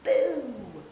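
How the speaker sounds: sudden high, loud BOO; loud playful boo. Acted. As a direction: jump out and spook him with a loud boo. Hippo jumps out to scare.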